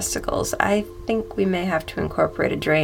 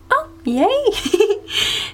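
high, louder giggly cheer; delighted laugh; 13 semitones higher, 4 dB louder than usual. Acted. Masseuse cheering when the client agrees, laughing. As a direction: squeal with delight as he says yes.

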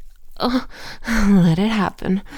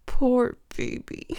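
voiced, higher teasing repeat; mock pity; 5 semitones higher than usual.

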